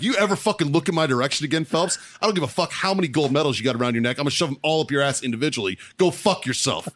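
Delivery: retold threat. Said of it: "I'm like".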